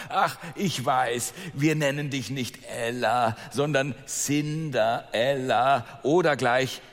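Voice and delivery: a lightly voiced mocking sister, slow; mocking stepsister. Second stepsister mocking Ella's new name, lightly voiced and slow. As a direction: drag out the taunt with a sneer. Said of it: "Und die zweite sagte".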